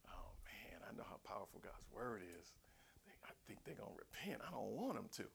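secret whisper; whispered thoughts. Retold or imitated. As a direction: whisper it like a guilty confession. Jonah's secret inner thoughts.

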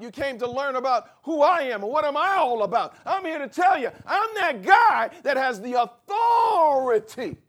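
loud preacher voicing Jesus; Jesus declaring his authority, shouted; preaching at full force. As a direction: proclaim it like a pulpit climax.

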